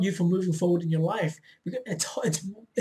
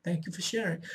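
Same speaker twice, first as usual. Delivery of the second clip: calm acknowledgement; 6 dB quieter than usual. Shown as a demonstration. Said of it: "Just accept what it's telling you".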